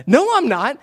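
high, loud defensive protest; hammed-up indignant denial, pushed way up in pitch; mock-gracious snapping. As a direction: act out a grouchy dad loudly insisting he's great. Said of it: "in a gracious way".

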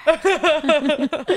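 whispered through a laugh; giggly whisper. Acted. Sneaking a word into the text.

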